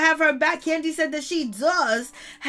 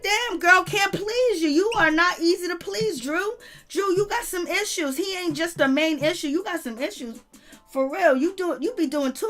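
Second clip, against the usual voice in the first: higher, fed-up scolding of a friend; exasperated scolding; 4 semitones higher than usual. Real, not acted. Vlogger fed up with Drew's complaining, exasperated. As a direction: talk down to her like she's too much.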